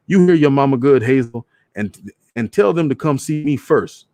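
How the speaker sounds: a hint of a proud father; father to daughter over the paper, firm; daddy's voice. Daddy quoted backing mama.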